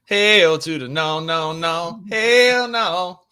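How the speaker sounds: loud, punchy refusal; a loud, flat-out no; emphatic hell no. Real, not acted. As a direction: shut the idea down hard. Emphatic refusal of trade idea.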